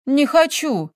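stubborn. A narrator's reading. Girl refuses the witch, stubborn. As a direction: dig in your heels. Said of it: "упрямо качнула головой Таисия".

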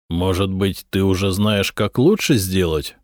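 normal talking voice

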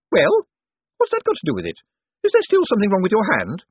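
high-pitched, pushy woman's voice; bossy sister. A narrator's reading. Sister urging her brother on about the hostage, bossy. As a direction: play a demanding sister, pitched well up.

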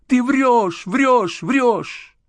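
high, wild, repeated scream; screaming not in her own voice. A narrator's reading. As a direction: lose control, shriek it over and over. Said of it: "кричала не своим голосом".

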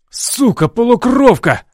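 high, loud furious yell; redheaded guard screams at Alex, furious. A narrator's reading. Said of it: "заорал Рыжий".

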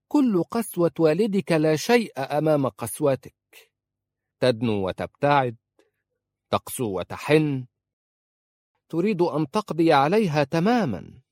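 high, loud mocking tirade; biting mock admiration; sarcastic. A narrator's reading. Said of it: "قالت في سخرية".

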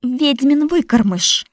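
slow, loud, high curse; spat insult. Acted. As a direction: hurl the insult at him. Widow cursing the boy.

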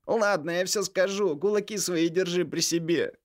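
pleading younger brother. A narrator's reading. Vitalik begs furious brother Misha, high pleading voice. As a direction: beg your angry brother to calm down.

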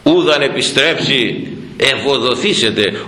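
verse intoned slowly; slow recited verse. Shown as a demonstration. Priest quoting the hymn verse to the congregation, slow recitation. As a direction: chant the hymn line slowly, weighing each word. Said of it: "να δεις αυτό που λέει εδώ ο στίχος".

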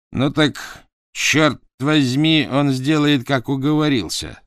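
high, forceful, slow chёrt vozmi; brash and defiant. Acted. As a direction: lay down the law, swaggering. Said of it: "тряхнув своей круглой головой".

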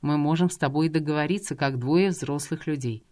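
a man calmly negotiating with a kidnapper at a cliff edge; calm negotiator. Acted. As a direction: talk her down patiently.

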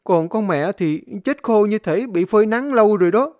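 high, loud frightened pleading. Acted. Servant pleading with master not to hit him, frightened. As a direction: beg and explain in a rush of fear.

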